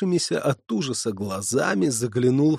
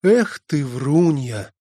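reproachful; 3 semitones higher, 4 dB louder, slower than usual. Acted. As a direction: scold her with a sigh of disappointment. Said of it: "укоризненно произнесла". (укоризненно)

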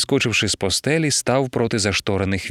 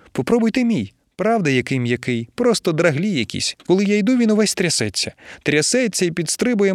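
higher, excitable, chattering wife; gushing young wife; 4 semitones higher than usual. Acted. Wife admiring the guest while she undresses, gushing. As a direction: gush and coo over the guest's body.

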